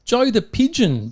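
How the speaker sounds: high, slow, grand announcement of the name; dramatic title reveal. Acted. Host teasing his co-host with the big story name, drawn out. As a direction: unveil the story title like a headline.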